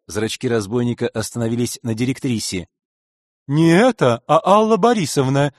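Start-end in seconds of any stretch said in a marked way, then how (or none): 3.5-5.5 громкое возмущённое поправление, повыше; возмутись и поправь его; возмущённо. Acted. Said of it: "законно возмутилась дама". (возмущённо и громко)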